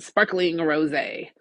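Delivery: slowed, sneering over each word; lips curled in distaste. Acted. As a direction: let the disdain curl the words. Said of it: "Her lips curl on the last two words".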